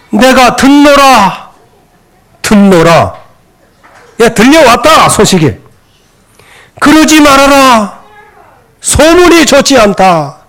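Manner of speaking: put-on slow, drawn-out words of an old priest; lightly voiced reproving father, stretching each phrase; Eli's mild rebuke. Priest Eli to his wayward sons, slow mild reproof.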